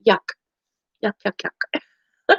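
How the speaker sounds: slow, drawn-out mock disgust; playful yuck. Griping to viewers about the DMV, slow mock disgust. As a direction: draw out each yuck like a grimace.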